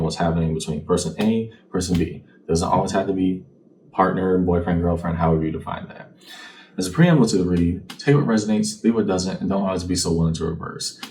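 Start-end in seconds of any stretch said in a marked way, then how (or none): none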